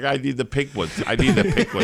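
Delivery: upset, fussy, fretting insistence, rising and repeated. Retelling how the other speaker acts at restaurants: imitating someone getting upset. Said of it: "He's like".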